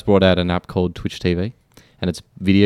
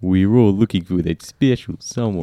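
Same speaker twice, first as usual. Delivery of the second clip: amateur attempt at a Russian accent; Nico Bellic. Guest repeats the quote on request, attempted Russian accent. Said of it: "I was quoting Nico Bellic then".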